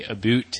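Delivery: "a boot" with an oo vowel for "about"; Canadian pronunciation. Shown as a demonstration. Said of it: "they talked wrong".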